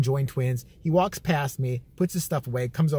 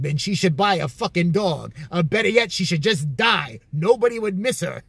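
raised, emphatic imitated grumpiness; mock-callous rant; 2 semitones higher, 3 dB louder than usual. Uncle dismissing a lonely old customer, mock-callous rant. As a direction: spit out each dismissal as the uncle.

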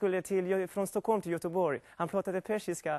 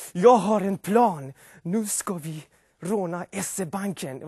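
lightly voiced gang boss, louder; Charles Ingvar Jönsson; 3 dB louder than usual. Comic imitates Charles Ingvar Jönsson planning a bank robbery. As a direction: announce the heist plan like a gang leader. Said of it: "jag ska härma Charles Ingvar".

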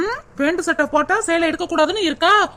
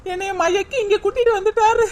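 put-on wailing complaint, a little higher; fake crying; 4 semitones higher than usual. Wife fakes crying to squeeze money from husband, mock wail. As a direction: ham up a tearful lament to get money. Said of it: "ஒரு அழுகைய போடு".

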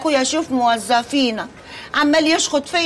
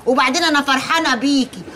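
joyful cry. Acted. Aunt celebrates loudly.

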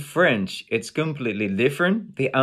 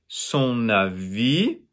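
slow "son avis" with VIS stretched and rising; longer last syllable; 2 semitones lower, slower than usual. Shown as a demonstration. Teacher showing syllable duration, long final "vis". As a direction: draw out the end of "avis". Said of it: "longer, a little bit longer".

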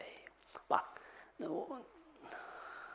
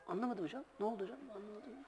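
softer, higher, wide-eyed innocent asking; innocent puzzled kid; 5 semitones higher, 20 dB quieter than usual. Retold or imitated. Teacher telling how the student played innocent, softer and higher. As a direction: play dumb like a naive boy. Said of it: "Aynı öyle bakıyor çocuk".

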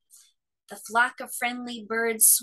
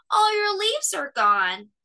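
sorrowful; 10 semitones higher, 5 dB louder than usual. A narrator's reading. Cub grieving bare tree.

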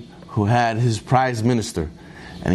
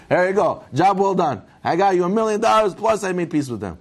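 happy; 4 semitones higher than usual. Acted. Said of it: "He's so happy".

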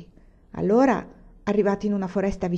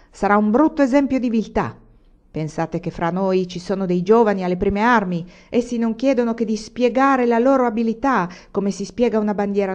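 louder rallying cry to the bandits; shouting bandit; 2 semitones higher, 4 dB louder than usual. Acted. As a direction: rouse the men, shout it out. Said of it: "Allora Pilato Barras gridò". (grido del bandito ai compagni, a voce alta)

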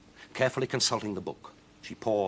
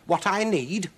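high, loud cranky witch; 11 semitones higher, 6 dB louder, slower than usual. Acted. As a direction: play the witch muttering her plan. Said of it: "she told herself one day".

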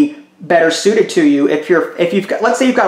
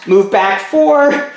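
slowly spelled-out move; much slower than usual. Shown as a demonstration. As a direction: draw each word out. Acting out a cheating player's moves.

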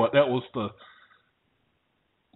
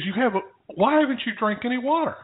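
incredulous nurse; 10 semitones higher than usual. Retold or imitated. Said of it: "She goes".

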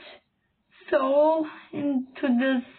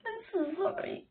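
choked up; 5 semitones higher, 12 dB quieter, faster than usual. Real, not acted. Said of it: "I'm crying".

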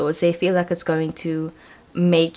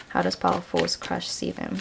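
asked again much softer; quieter repeat; 7 dB quieter than usual. Shown as a demonstration. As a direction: murmur the question to the cards. Repeats question to spirit.

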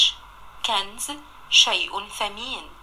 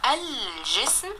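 drawn out slowly, each sound clear; teacher sounding out الجسم slowly; slow spelling-out; 3 semitones higher, much slower than usual. Shown as a demonstration. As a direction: stretch the word الجسم so the lam is heard. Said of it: "نطقت اللام ومكتوبة".

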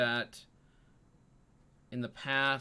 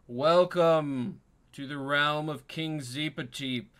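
hearty king; 5 dB louder than usual. Acted. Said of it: "greets you with a hearty laugh and says".

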